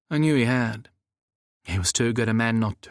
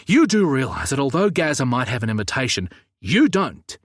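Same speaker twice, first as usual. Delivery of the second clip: stern cop, higher and louder on the end; Samuel's warning; 3 semitones higher, 4 dB louder than usual. Acted. Samuel warning Nick he'd be trespassing, sharp and raised. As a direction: pin him with "you don't".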